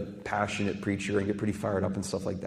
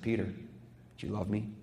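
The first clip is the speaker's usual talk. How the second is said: hushed; 3 semitones lower, 11 dB quieter than usual. Acted. Jesus questioning Peter, quoted.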